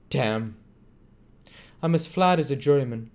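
swaggering high lounger; boastful Crackit voice. A narrator's reading. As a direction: brag idly, bored sharp. Crackit voiced for many lines.

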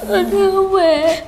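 small, high, slow words through tears. Real, not acted. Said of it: "bé thấy mẹ của bé khóc thì bé khóc theo".

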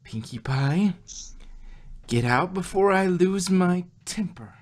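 loud, angry warning; Twilight, furious, orders Pinkie out of her house. Acted. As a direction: warn her off before you lose your temper.

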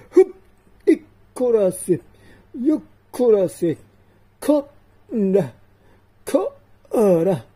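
effortful heaves, pitch jumping up; straining grunts. Acted. Man tugs at a sword that won't draw, straining. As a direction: strain hard as if pulling a stuck blade.

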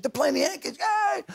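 high-pitched mock cheer; excited wife. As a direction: voice a thrilled wife, rising to a high yay. Voices wife cheering the game.

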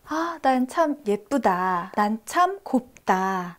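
slow, tender self-praise; kind self-talk. Pretend. Telling herself she is pretty, slow and tender. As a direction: savour each word to yourself. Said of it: "이렇게 생각할 수 있잖아요".

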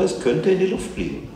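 lightly voiced arguing child, very high; insistent child. A narrator's reading. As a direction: press the point like a child. Child argues back at mother.

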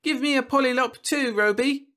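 put-on high, loud child demand; high-pitched kid's order; demanding little girl. A narrator's reading. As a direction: pipe up insistently like a small girl. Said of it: "she demanded".

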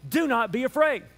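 sassy, punchy church call; a little attitude. Shown as a demonstration. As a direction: say it with some sauce and attitude. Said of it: "just a little bit of attitude".

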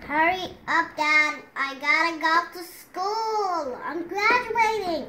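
loud eager calling out; excited shout. Pretend. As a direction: hurry Dad along, excited.

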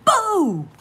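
sudden high loud BOO; shouted boo. Acted. Reader startling listening children with a loud boo.

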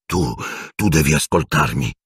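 mildly hoarse plea. Acted. Prisoner begging to be heard, a touch hoarse. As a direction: urge him with some hoarseness. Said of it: "disse con voce roca".

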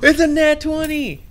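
gasping, loud thrilled cry; excited shout. Real, not acted. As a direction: yell it out in pure disbelief. Rolls a natural twenty.

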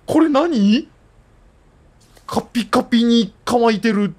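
high, puzzled exclamation; suddenly surprised and high. Real, not acted. Surprised at a strange item. (驚いて高い声で)

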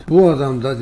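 mock the doctor's annoyed outburst. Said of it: "Bağırdı, çağırdı". (kızgın doktoru hafifçe taklit eden, yüksek sesle)

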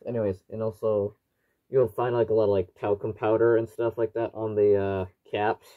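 muffled through a gas mask; speaking through a tight respirator mask. Real, not acted. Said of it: "You should be able to hear me, uh, quite clearly through the, uh, voice diaphragm".

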